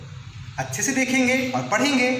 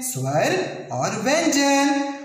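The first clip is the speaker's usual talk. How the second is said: slow emphasis; 3 semitones higher, slower than usual. Shown as a demonstration. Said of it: "वर्णों के दो भाग होते हैं".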